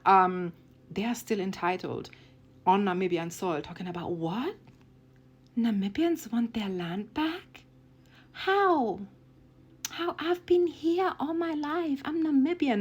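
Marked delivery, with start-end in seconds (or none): 4.1-12.8 much higher, slow whiny outrage; mock indignant settler. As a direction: play the shocked, entitled settler, hammed up. Mocking entitled settlers.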